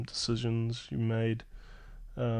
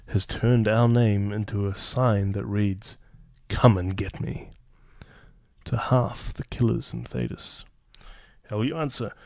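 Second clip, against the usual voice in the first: just reading; 12 dB louder than usual. Acted. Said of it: "I'm just gonna read".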